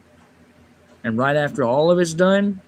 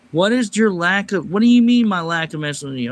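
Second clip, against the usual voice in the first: higher, louder, rushing disbelief; incredulous outburst; 4 semitones higher, 4 dB louder than usual. Real, not acted. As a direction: fire back in disbelief. Reacting to insulting chat comment.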